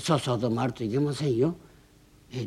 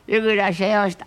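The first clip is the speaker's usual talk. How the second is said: eager welcome; 7 semitones higher, 5 dB louder than usual. Acted. Hostess greets regular.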